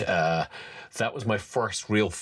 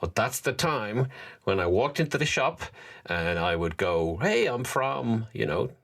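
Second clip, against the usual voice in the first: inner voice; 4 semitones higher than usual. Retold or imitated. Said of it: "A little voice in my head says".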